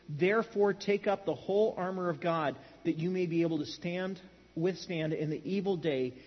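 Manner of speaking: measured, even reading aloud; scripture reading. Acted. Preacher reading Paul's letter to the church, measured. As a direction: read the passage out deliberately, phrase by phrase.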